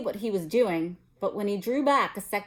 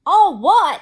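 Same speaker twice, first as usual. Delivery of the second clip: thundering shout, much higher and louder; thundered; 11 semitones higher, 13 dB louder than usual. A narrator's reading. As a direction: roar it at the room. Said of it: "Hagrid thundered".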